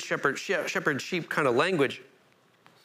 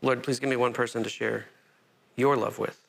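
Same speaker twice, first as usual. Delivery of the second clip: quiet prayer; 5 semitones lower than usual. Shown as a demonstration. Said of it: "We all pray with, that with me".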